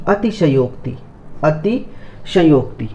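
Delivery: walk through अतिशयोक्ति slowly; slow careful word. Shown as a demonstration. Teacher spelling for students, slow. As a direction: say अतिशयोक्ति slowly, अति then शयोक्ति. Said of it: "पहले अति आएगा".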